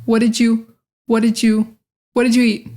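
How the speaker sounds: "did you" blended into "didju"; natural linking. Shown as a demonstration. Teacher repeating for learners, natural linking. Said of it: "We'd say".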